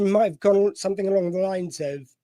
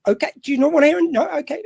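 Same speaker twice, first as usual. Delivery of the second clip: higher, fast and airy, no bother; breezy mock shrug; 9 semitones higher, 4 dB louder, faster than usual. Telling the listener how he shrugged off the rappers, breezy and fast. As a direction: toss it off like it doesn't matter.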